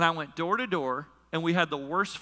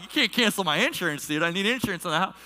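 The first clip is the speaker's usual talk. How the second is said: mildly pleading protest, pitched up; 4 semitones higher, 4 dB louder than usual. Retold or imitated. Retelling his plea to the insurer, protesting. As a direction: plead your case to the insurer.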